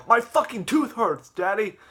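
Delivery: put-on loud, high kid wail; drawn-out cartoon cry of pain; acted pained yell. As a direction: yell to Daddy in mock agony. Voicing Jeffy in tooth pain.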